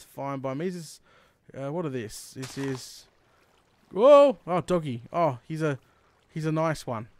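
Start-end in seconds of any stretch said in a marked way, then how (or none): 3.9-5.0 sudden loud whoa; startled gasp of wonder; surprised. Real, not acted. Sudden find while exploring.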